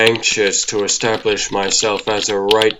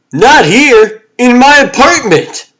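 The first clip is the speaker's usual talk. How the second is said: alarmed exclamation; 13 semitones higher, 7 dB louder than usual. Acted. Panicked correction about bed bugs.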